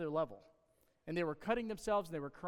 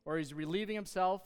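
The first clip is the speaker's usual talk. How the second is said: sarcastic, raised and louder taunt; mocking; 2 semitones higher, 4 dB louder than usual. Elijah taunting the prophets of Baal, mocking tone. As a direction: needle them, egg them on. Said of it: "Elijah mocked them".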